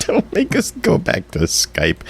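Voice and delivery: mock pleading. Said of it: "The sadness in his voice as he pleads".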